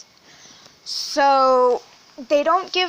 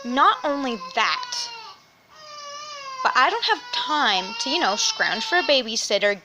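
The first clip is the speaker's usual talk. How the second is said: near tears; 5 semitones higher than usual. Real, not acted. Venting, voice cracking.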